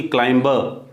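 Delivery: "क्लाइंबर" with the b sounded; wrong climber. Shown as a demonstration. Teacher shows students the wrong "क्लाइंबर". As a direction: say "क्लाइंबर" with a b to show the error. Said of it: "क्लाइंबर नहीं बोलेंगे".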